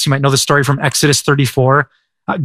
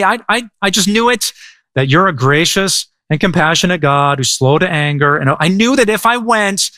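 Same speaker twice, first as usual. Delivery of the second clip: high, petulant I-told-you-so rant; hammed-up grumpy Jonah; mock angry whine; 4 semitones higher than usual. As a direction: whine it like a sulky kid. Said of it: "Jonah says".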